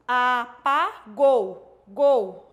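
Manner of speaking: Apagou spelled out slowly, syllable by syllable; teacher sounding out the word slowly; slow syllable demo. Shown as a demonstration. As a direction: draw out Apagou, then gol, each beat apart. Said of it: "aqui o exemplo, ó".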